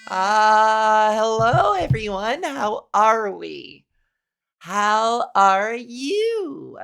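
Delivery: deliberately feminized hello; practiced feminine voice. Acted. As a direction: drawl the greeting like vocal practice. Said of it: "vocal feminization training".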